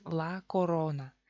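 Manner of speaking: corona with full, clear o in each syllable, slowly; Spanish-style corona, each vowel as written; every vowel pronounced. Shown as a demonstration. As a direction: say corona slowly with both o's intact. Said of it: "Pronunciamos cada vocal así como es".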